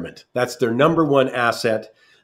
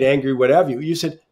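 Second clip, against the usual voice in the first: ordinary delivery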